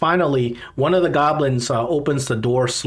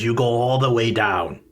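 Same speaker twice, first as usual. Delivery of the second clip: bugbear giving directions; 4 semitones lower than usual. Acted. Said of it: "He says".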